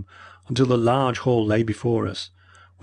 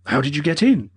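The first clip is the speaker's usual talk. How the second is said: stern question; 5 semitones higher, 5 dB louder than usual. Acted. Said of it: "asked Mortimer".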